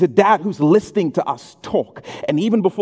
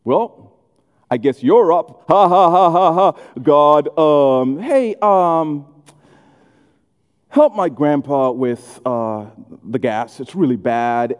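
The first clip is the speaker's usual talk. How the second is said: lightly voiced awkward casual prayer; hesitant, offhand beginner praying; amateur new believer; 3 semitones lower than usual. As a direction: fumble through a prayer like a chat, with halting gaps. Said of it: "they'll just pray like they talk".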